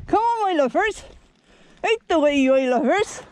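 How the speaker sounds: West Country farmer coaxing cows along; jolly West Country 'come on, my lovers'; West Country accent. Acted. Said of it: "we all doing it in a West Country accent".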